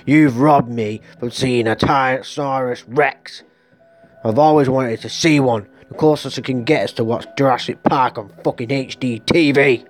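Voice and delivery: mock outraged rant. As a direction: rant like a cheated fan. Imagined rant at dinosaur killers.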